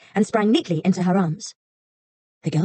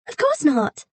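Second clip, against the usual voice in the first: put-on high girlish voice; a kind girl reassuring the fox; little girl; 10 semitones higher, slower than usual. A narrator's reading.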